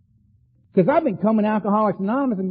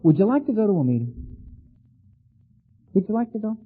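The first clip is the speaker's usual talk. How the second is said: mock gentle invitation; faster than usual. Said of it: "if my sponsor had called me and said".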